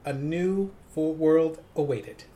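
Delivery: lightly voiced radio host reading copy, phrase by phrase; measured DJ read with pauses between phrases; Casey Kasem. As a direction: read it with a hint of countdown-show announcer. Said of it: "Channel Casey Kasem".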